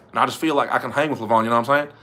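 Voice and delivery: light attempt at a thick Southern accent; Michael Todd. Trying out Michael Todd hanging with Levon, tentative Southern accent. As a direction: try an easygoing Arkansas twang, only half there. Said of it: "Let me try a Michael Todd one".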